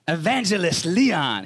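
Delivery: slow, drawn-out name call; a hint of a grand announcement; excitable missionary. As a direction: lightly imitate a missionary hailing his evangelist. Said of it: "He talked like that".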